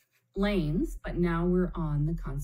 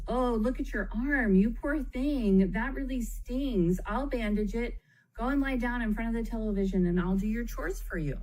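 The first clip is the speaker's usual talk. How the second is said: higher, fussing, syrupy pity; gushing overindulgent parent; 6 semitones higher than usual. Shown as a demonstration. Overindulgent parent rushing to a child's scraped arm, higher gushing pity. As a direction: smother the kid with sympathy.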